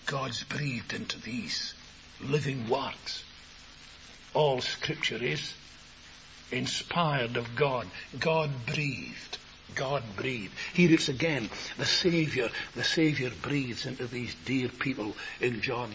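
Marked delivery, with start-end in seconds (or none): 0.1-10.5 reverent hush. Real, not acted. Reverent hush over inspired scripture.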